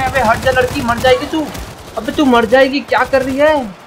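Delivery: high, loud scolding shout; yelling at teammate. Real, not acted. Gamer yelling at a reckless teammate, high loud scolding. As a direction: bark at her to get out of the way.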